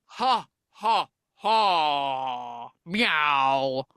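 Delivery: villainous staged laugh ending in a meow; slow, spaced mock cackle, then meow; Idris Elba cat. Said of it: "hear Idris Elba cat laughing in the distance".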